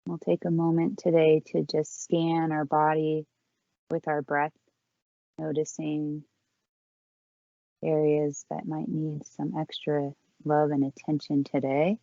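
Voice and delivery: calm, unhurried yoga-teacher voice with long pauses; guided breathing meditation. Real, not acted. Yoga teacher leading the class in four count breathing, calm guided meditation. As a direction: guide them gently through each breath, leaving space between phrases.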